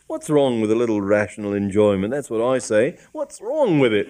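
indignant cockney constable, rising; annoyed policeman. Acted. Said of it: "a look of annoyance".

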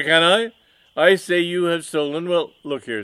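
loud, high, indignant villain; mustache twirling villain. Acted. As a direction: rant at the rival, outraged. Villain rants at rival.

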